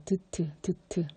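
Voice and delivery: 드트 said slowly from the tongue tip; 드트 drawn out slowly; slow pronunciation demo. Shown as a demonstration. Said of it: "혀 끝에서 소리 나죠".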